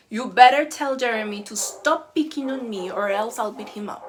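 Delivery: angry student. Retold or imitated. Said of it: "walks into your classroom angry".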